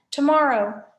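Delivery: booming Cyclops command; loud monster demand. Acted. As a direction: bark it like a giant.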